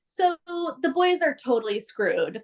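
ordinary talk, nothing marked

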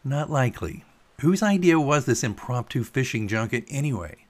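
understated grumbling; mild irritation. Acted. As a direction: let a touch of annoyance creep in. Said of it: "a filament of irritation winding into his tone".

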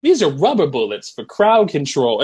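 light high coach voice; casual coach. Retold or imitated. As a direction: toss it off breezily. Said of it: "he's like".

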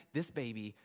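very soft, low, fading to a whisper; hushed confession. Acted. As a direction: let the acted admission trail into a whisper. Acted Mary's timid confession.

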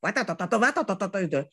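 imitated babble. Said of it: "nggak bisa berhenti ngomong".

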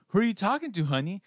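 high, sweet mother's question; mom voice. Retold or imitated. A mother to her little girl in the mirror, high and sweet. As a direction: lilt it up like a gentle mom. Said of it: "She goes".

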